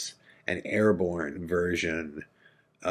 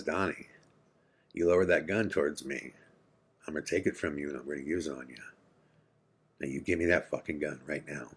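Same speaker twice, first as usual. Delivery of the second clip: softer, lower menacing warning; low quiet threat; 3 semitones lower, 5 dB quieter, faster than usual. Retold or imitated. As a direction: threaten him quietly, deadly calm. Dad threatening Donnie quietly.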